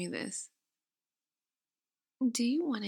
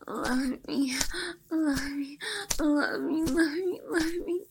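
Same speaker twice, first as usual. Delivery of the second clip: begging plea; 4 semitones higher, slower than usual. Acted. Repeated plea building to a cry.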